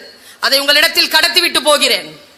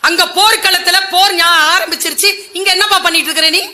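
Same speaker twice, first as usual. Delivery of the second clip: mild retold rebuke at a younger brother; angry elder brother; 4 semitones higher than usual. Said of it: "கோபமா கேட்டாராம்". (கோபமான கேள்வி)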